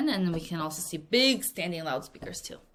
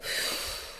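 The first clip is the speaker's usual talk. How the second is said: relieved sigh; 9 dB quieter than usual. Retold or imitated. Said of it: "So he's like".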